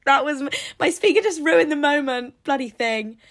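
startled outburst. Real, not acted. Speaker interrupts, she shouts laughing.

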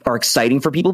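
ordinary delivery

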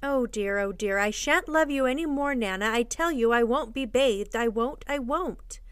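put-on mildly petulant child refusing; stubborn child's protest. Child refuses to be bathed by Nana, petulant. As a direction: dig in your heels, slowing on the last refusal.

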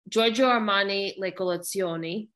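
Italian pronunciation of Giorgio Armani Le Collezioni; Italian accent. Real, not acted. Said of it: "You say that like you're Italian".

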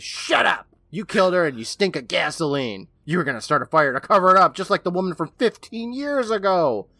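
high, heated mock rant; hammed-up accusation, pushed up in pitch; imitated screaming. Retelling Billy screaming in Ingalls's face, mock angry rant. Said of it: "Billy screams in his face".

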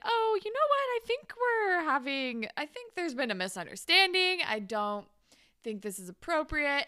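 high, loud, nervous teacher backpedaling; a teacher nervously turning down a student's advance; awkward teacher. Retold or imitated. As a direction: let him down in a flustered high voice. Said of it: "he's like".

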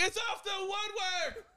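high, drawn-out British match call; hammed-up commentator cry, stretched out; British soccer commentator. Friend who can't do normal English conversation, British commentator shout. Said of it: "can't have a normal English conversation".

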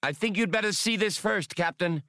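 high-pitched alien call, shouted across the snow; yelled back. A narrator's reading. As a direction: call out to the captain in a high, odd voice. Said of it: "the academician yelled back".

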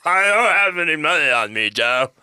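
loud, high put-on miner; hammed-up plea from a cornered miner; imagined miner voice. Eddie tells Joe he has no money, high hammed-up miner voice. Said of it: "That's how I imagine".

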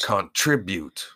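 "Contribute" drawn out slowly, syllable by syllable; imitated contribute. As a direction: mimic his "Contribute", stretched out. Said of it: "just the way he says contribute".

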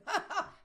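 high imitated evil cackle; mock-demonic laugh; diabolical laugh. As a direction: cackle like a possessed parrot. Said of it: "O diabólico".

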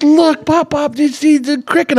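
put-on high, eager child voice; imitating granddaughter. Grandpa voicing granddaughter showing him the cricket, high and eager. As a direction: call out like an excited kid. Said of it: "She goes".

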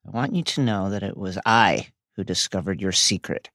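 hushed dramatic letter reading; mock solemn letter. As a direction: read it like a doomed last note. Parodies Regulus's letter.

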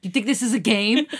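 loud threatening demand; loud angry. Pretend. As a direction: bark it at him. Listener voices angry Jisung.

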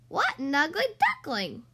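a touch of a mocking duck voice; quacked. Wild ducks mocking the ugly duckling, mild quacky jeer. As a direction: tease him like a snooty wild duck. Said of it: "quacked the wild ducks".

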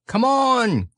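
high call down a line; rally everyone with a high, carrying shout; high-pitched leader's call; Christopher Robin, calling. Acted. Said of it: "called Christopher Robin".

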